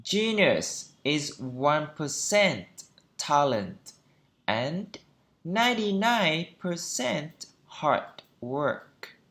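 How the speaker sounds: slow, word-by-word model reading; deliberate phrase-by-phrase teaching delivery; measured practice pace. Shown as a demonstration. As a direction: read it out slowly with careful stresses and small gaps. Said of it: "đọc với tốc độ nhanh hơn một chút".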